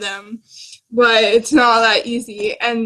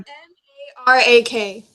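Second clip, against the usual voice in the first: spelled out slowly; slower than usual. Shown as a demonstration. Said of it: "It starts with an M".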